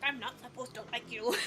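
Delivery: a hint of a grumpy man. Friend in character meeting her at a party, mildly grumpy. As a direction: lightly mimic a grump in character. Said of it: "so he was all grumpy".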